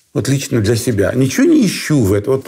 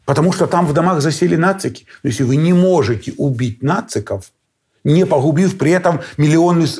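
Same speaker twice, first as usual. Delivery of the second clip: ordinary delivery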